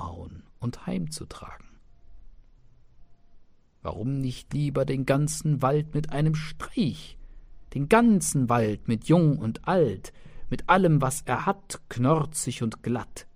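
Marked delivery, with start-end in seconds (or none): 3.8-13.3 boastful tailor. Acted.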